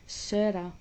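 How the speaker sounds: Sarah said as SAIR-uh; her English pronunciation. Retold or imitated. Quoting how she says her own name, Sarah as SAIR-uh. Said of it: "This is how she pronounces it".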